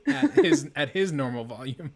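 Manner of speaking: loud, laughing mock normal voice; mock normal volume. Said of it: "and he responded to them".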